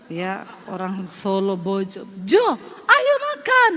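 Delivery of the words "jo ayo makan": high, slow sing-song call to the husband. Retold or imitated. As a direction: call him to eat, Sulawesi lilt rising. Wife calling husband in story. (memanggil suami dengan nada naik)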